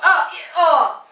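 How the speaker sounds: slow, loud knowing groan; knowing disgust. Real, not acted. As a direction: drag out the grossed-out oh. Grossed out by bathroom talk.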